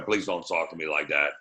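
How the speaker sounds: low, mildly uncomfortable request; uncomfortable objection. Retold or imitated. Big guy objecting to the gay talk, mildly uncomfortable. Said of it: "You can hear it in his voice".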